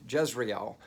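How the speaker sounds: Jezreel with the final vowels kept apart; corrected pronunciation. Shown as a demonstration. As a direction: say Jezreel in three syllables, jez-ree-el. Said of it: "Not Jezreel".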